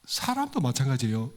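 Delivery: usual speaking voice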